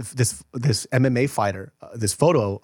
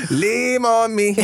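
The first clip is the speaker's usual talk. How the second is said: put-on higher, slow Cholo accent; 8 semitones higher, slower than usual. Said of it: "with the Cholo accent".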